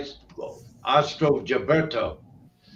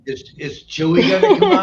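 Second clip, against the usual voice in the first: calling out; 7 semitones higher, 10 dB louder than usual. Real, not acted. Calling out to shy Chewy.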